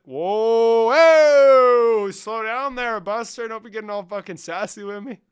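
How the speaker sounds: high, loud hammed-up rebuke; a put-on stern scolding at a sassy chatter; mock scolding. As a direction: rein them in like a prissy scold.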